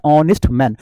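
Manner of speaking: ऑनेस्ट said with an open "o" and no h; teacher says ऑनेस्ट starting on the vowel "ऑ", h dropped; silent h. Shown as a demonstration. Teacher showing students how ऑनेस्ट sounds, careful silent h. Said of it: "इसका sound जब निकलता है तो ऐसे निकलता है".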